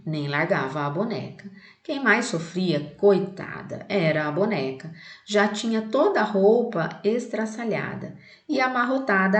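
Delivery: put-on reading a children's poem aloud to the class. Shown as a demonstration. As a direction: recite the poem clearly for students. (leitura de poema para a turma)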